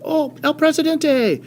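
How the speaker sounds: high, slow, drawn-out calling out; yelling. Retold or imitated. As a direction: point him out, shouting across the camp. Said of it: "starts yelling".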